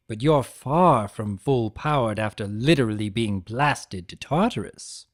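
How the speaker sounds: a hint of a scolding parent; disapproving parent. Chaos spirit mildly scolding the burned centaur. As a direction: tut at him like a naughty child. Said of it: "like a disapproving parent".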